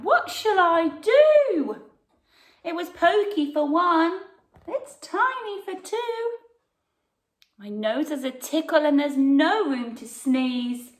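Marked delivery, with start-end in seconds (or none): 0.0-5.7 distressed cry. Acted. Old lady crying out to the wise man, high and loud. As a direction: wail it like a flustered old lady. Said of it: "The little old lady cried".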